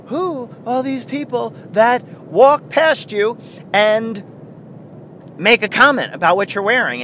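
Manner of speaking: high, stretched stand-up delivery, quickening at the end; Jerry Seinfeld. Acted. Comic riffing on strangers who comment, bad impression. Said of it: "that's what he would say".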